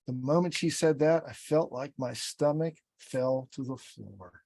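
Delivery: deliberate, emotionally connected storytelling; slowed-down storytelling. Shown as a demonstration. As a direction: let each phrase land, slowing as it drops. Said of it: "we see people run through their stories so fast".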